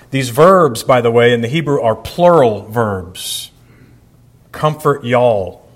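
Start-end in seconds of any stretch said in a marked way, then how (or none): 4.5-5.7 slow, folksy Southern drawl on "Comfort y'all"; Southern accent. Shown as a demonstration. Pastor joking how God would say it in Southern accent. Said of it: "if he were Southern".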